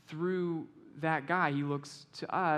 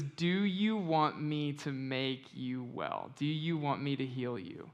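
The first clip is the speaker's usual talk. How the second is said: gentle Jesus; 2 semitones lower, slower than usual. Acted. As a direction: ask it tenderly, taking your time. Jesus gently offers healing.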